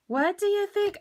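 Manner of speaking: a gleeful squealed repeat; excited high repeat. Real, not acted. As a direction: ask it again with rising delight.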